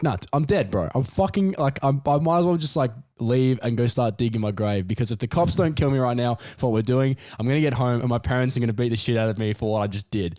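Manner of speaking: high, frantic mock panic; teen in the car ranting he's dead, high and frantic; panicked. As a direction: spiral into doom. Panicking at police lights.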